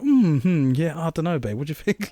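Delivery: put-on casual deliberation with a partner; pretend consideration. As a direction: act as if seriously weighing it up. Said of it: "we were acting like we can afford this".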